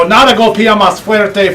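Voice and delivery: slow, relished Spanish slogan. Shown as a demonstration. Presenter showing off the hammer's slogan, in slow Spanish. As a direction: savor each Spanish word, drawn out slowly. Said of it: "sounds better in the Spanish".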